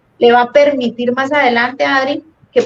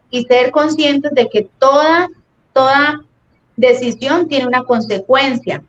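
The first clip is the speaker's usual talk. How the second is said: slow, with weight on "toda" repeated twice; stress on toda; slower than usual. Real, not acted. Therapist stressing to the host that every decision has consequences, slow and weighty. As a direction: lean on "toda", then pause before "decisión". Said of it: "stressing that every decision counts".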